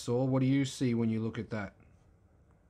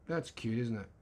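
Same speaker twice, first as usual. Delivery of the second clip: quieter second take, said half to himself; softer repeat; 3 semitones lower, 5 dB quieter than usual. Shown as a demonstration. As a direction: repeat it softer, almost under the breath.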